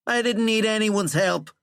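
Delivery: very high, loud, insistent protest. A narrator's reading. President denying anyone helped him, angry. President escalates his denial.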